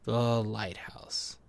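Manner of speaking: quiet, slow, drawn out; slow hushed title. Acted. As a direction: let it sink in softly. Repeating the title, fading.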